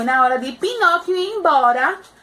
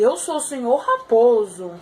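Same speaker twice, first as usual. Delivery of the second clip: Mr Fox voice; 2 semitones lower than usual. Acted. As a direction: introduce yourself as a smooth fox.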